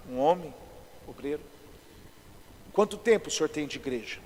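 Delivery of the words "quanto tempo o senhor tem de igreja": low put-on voice of authority; lightly imitated solemn pastor's voice; cavernous voice. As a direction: lower it into a mildly cavernous voice. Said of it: "Fiz uma voz cavernosa".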